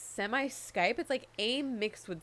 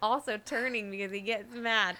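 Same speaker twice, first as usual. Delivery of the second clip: reading own notes; 3 semitones higher, 4 dB louder, slower than usual. Retold or imitated. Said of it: "That's the sentence I wrote".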